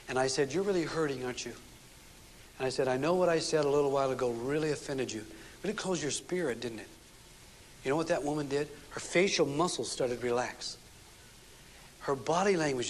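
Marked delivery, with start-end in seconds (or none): 0.5-6.9 softer and lower, tender and caring; soft and gentle. Shown as a demonstration. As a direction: gently soothe a hurting wife. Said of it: "I just want you to be soft with her".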